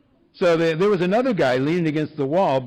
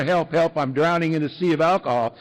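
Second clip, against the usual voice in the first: mock cry for help; 3 semitones higher than usual. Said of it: "I don't know what it looks like to you".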